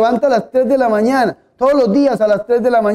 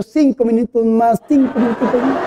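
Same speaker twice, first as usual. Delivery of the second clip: sleepy Lazarus. Retold or imitated. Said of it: "y hubiese dicho".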